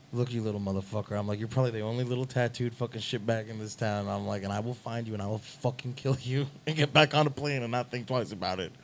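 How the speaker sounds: quiet menacing threat. Retold or imitated. Singer to the kid, quiet menacing threat.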